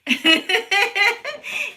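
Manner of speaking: high, rapid run of giggles; amused giggle. Real, not acted. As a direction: giggle at your own attempt. Amused at own pronunciation attempt.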